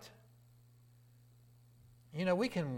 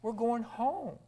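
joyful proclamation; 7 semitones higher, slower than usual. Acted. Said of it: "graduation day".

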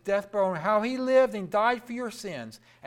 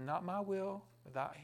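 quiet surrender; 9 dB quieter than usual. Acted. Jesus softly yielding to the Father's will. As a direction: let it fall away into a hush. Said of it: "He said".

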